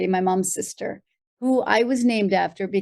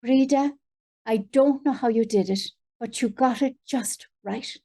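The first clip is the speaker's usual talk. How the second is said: lightly voiced Irish aunt; Auntie Betty; 2 semitones higher than usual. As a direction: give a hint of an elderly Irish aunt's approval. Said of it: "she just looked at me and she said".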